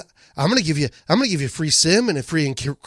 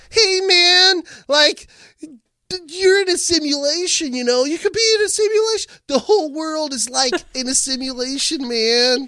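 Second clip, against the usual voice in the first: much higher laid-back hippie voice; Duncan Trussell impression; 10 semitones higher than usual. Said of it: "Duncan Trussell then".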